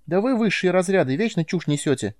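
high squeaky scolding voice; shrill-pitched little creature telling off her superior; squeaking Nelka. A narrator's reading. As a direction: squeak it back in scornful irritation. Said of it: "пищала Нелка".

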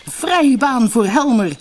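high, loud, slow cry with a breaking voice; cracking shout. A narrator's reading. Rider boasting as he charges through, voice cracking. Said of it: "riep hij met overslaande stem".

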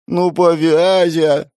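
high, slow squeaky plea; high squeaky whine; squeak. Acted. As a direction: squeak it like a pleading girl. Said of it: "пищит Ева".

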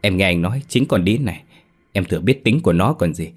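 a touch of husband's fury, then pleading; angry then begging. Acted. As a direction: curse her, then beg the ghost. Sĩ accuses wife, then begs.

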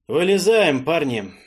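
loud call into the dark. Acted. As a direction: call out loudly to the hold. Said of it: "громко сказал я в темноту".

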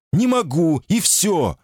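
high, sharp shouted refusal. A narrator's reading. Woman refusing his questions, shouting high. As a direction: cry it out, cutting him off. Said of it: "крикнула она".

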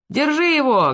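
sharp high shout; bark. A narrator's reading. Stableman barking at the fleeing shop manager. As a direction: bark the order to stop him. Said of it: "гаркнул был Лубников".

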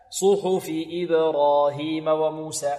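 slow chant with round u's in "صحف"; preserved damma. Shown as a demonstration. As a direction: keep "صحف" fully rounded, chanting slowly. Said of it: "صحف محافظ على الضم". (ترتيل بضم محقق في "صحف")

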